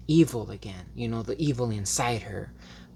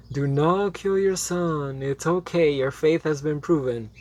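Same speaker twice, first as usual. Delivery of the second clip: imitating God's voice; 3 semitones higher than usual. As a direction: calmly stop the king, like a god speaking. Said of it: "a good imitation of, of God".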